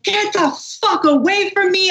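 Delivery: mild mock yell, high-pitched; retold angry snap. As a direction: snap it out without real volume. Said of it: "I snapped. I lost it".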